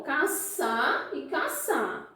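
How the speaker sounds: "caçar e caçar" said slowly, both words sounding identical; demonstrated pronunciation. Shown as a demonstration. Teacher repeating the words for the class, slow demonstrated pronunciation. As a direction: draw out "caçar e caçar" so the matching sounds are heard. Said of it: "A pronúncia é o quê?".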